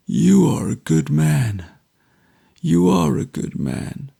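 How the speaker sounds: mild tearful thanks; breaking into tears. A narrator's reading. Dying Richard thanking his guardian, a touch tearful. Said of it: "and burst into tears".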